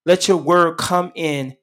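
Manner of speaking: earnest prayer voice that keeps calling on the Lord; closing prayer. Acted. Radio pastor prays over his listeners in earnest prayer. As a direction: plead for the listeners, phrase by phrase.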